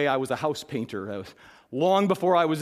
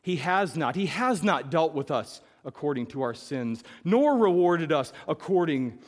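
reading scripture to the congregation; 2 semitones higher than usual. Acted. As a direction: let the verses sink in. Reads the psalm aloud.

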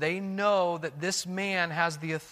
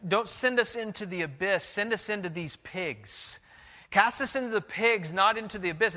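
pleading demons; 4 semitones higher than usual. Acted. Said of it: "They're pleading with him".

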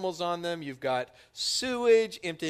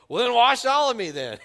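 louder, higher all-in blurt; excited, louder "wash all of me"; eager Peter; 8 semitones higher, 10 dB louder than usual. Retold or imitated. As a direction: Peter overcorrects, wants a full wash. Peter overeager reply.

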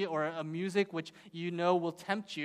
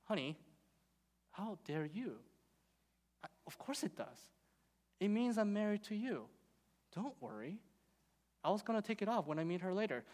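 husband's reply; 7 dB quieter than usual. Retold or imitated. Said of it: "the husband looks at his wife and says".

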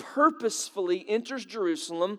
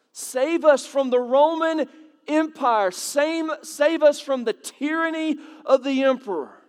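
Jews' plea; 5 semitones higher, 4 dB louder than usual. Retold or imitated. Jews voiced pleading against Rome.

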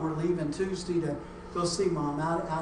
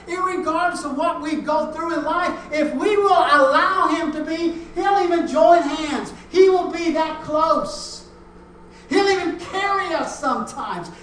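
high, loud pulpit proclamation; impassioned preaching; 10 semitones higher, 10 dB louder than usual. Real, not acted. Preacher assuring congregation God will be close, impassioned preaching. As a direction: preach it out with full force.

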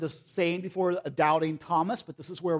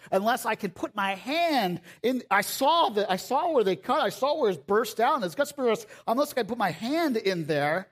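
stubborn doubter; 4 semitones higher than usual. Retold or imitated. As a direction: dig in your heels, refusing to believe. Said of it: "Thomas amongst the other disciples saying".

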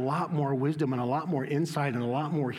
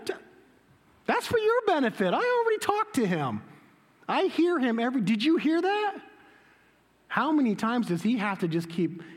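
as Jesus, fed up that they still don't get it; exasperated Jesus; 7 semitones higher than usual. Pretend. Jesus voiced, exasperated with crowd.

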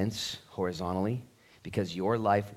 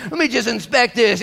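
mock curious; 13 semitones higher, 10 dB louder than usual.

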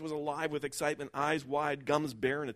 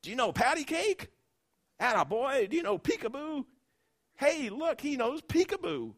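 much higher, louder happy shouting; shouting across room; 13 semitones higher, 7 dB louder than usual. Acted. Old bum shouting to the baby across the diner, loud and high. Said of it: "the old bum was shouting".

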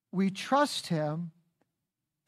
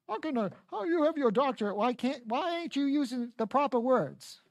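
higher, fast prim scolding voice; mock lecturer; 4 semitones higher than usual. Preacher mocking a critic of his grammar, prim scolding. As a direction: imitate a prissy critic correcting grammar. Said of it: "I'm gonna get a lecture about that".

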